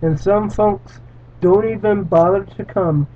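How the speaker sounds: earnest read-aloud narration; steady dramatic storytelling voice; story reading. A narrator's reading. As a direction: read it like a solemn parable.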